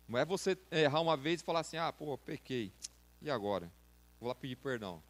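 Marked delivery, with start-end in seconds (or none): 1.8-5.0 mock careless sinner.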